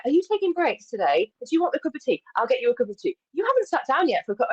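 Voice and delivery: mother her with tea offers; a kind client fussing over her; fussing caring client. Retold or imitated.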